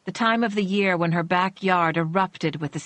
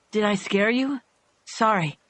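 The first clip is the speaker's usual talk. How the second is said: calm; 3 semitones higher than usual. Acted. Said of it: "he calmly said".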